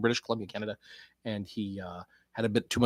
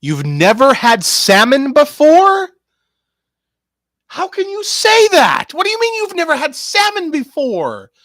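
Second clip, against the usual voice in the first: worked-up outburst; 14 dB louder than usual. Pretend. Reacting to someone never having had salmon, worked-up shouting. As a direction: yell it as if scandalised by the answer. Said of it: "I'm a little worked up by that".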